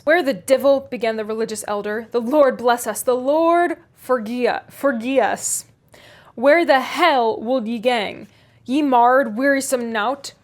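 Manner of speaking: crusty Yorkshire elder, scolding loudly; angry Yorkshire elder. Acted. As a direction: rail at him like a pious old grump. Joseph's angry outburst.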